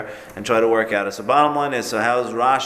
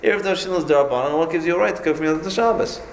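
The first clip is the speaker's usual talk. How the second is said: retorting challenge in a raised voice; incredulous challenge; 8 semitones higher than usual. Retold or imitated. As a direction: push back hard, demanding a reason. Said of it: "He says".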